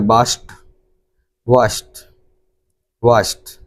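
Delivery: वाश्ड said "washt", ending in t; correct pronunciation. Shown as a demonstration. Teacher drilling class on वाश्ड as washt. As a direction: repeat वाश्ड with a t sound at the end. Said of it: "इसको क्या पढ़ा जाएगा".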